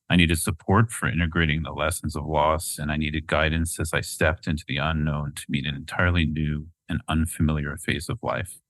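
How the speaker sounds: measured, earnest book reading; reading aloud. Acted. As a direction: read it like a memoir. Reads a passage from the book.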